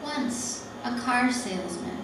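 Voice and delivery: deliberate poem recital in separate phrases; poetry reading. Acted. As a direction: read it as verse, pausing between images. Reads her poem aloud.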